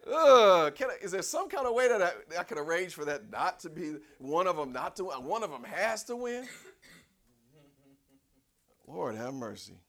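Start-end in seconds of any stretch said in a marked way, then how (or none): 0.1-6.5 high, loud, slow pleading preach; full-force preaching. Acted. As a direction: cry it out from the pulpit.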